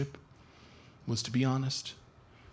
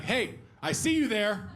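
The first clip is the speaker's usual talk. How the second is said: landlord dog voice; slower than usual. Retold or imitated. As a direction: shake a tenant down for rent. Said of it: "like a landlord talking to a tenant looking for money".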